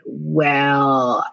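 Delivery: drawn-out mock pondering, then listing it off; mildly facetious retold reply. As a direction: play dumb with a slow, facetious answer. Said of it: "I got even more facetious".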